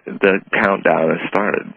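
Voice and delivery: slow, weighty reveal; ominous. Retold or imitated. Narrator spelling out the guru's hidden meaning, slow and weighty. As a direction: let each word land slowly. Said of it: "subtle way of saying".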